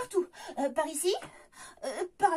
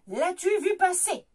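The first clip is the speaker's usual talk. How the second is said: witch voice; 5 dB louder than usual. Acted. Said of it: "Siffle la sorcière".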